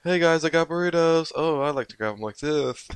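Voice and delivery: high goofy imitation of a guy; mock dude voice. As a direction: play a goofy guy showing off burritos. Mocking burrito guy voice.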